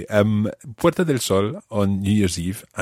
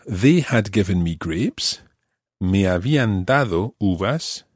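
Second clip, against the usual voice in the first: slow, deliberate "they had given me grapes"; slow translation. Shown as a demonstration. Teacher translates the grapes line, slow and clear. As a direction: spell it out slowly. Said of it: "more naturally translated as".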